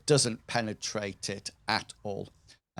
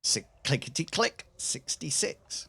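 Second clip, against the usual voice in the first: bingo caller; 4 semitones higher than usual. Pretend. Bingo call of dice roll.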